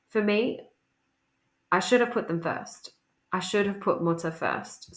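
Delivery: measured, lightly dramatic reading in short phrases; monologue read aloud. Acted. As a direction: read it out as a restrained monologue, pausing between thoughts.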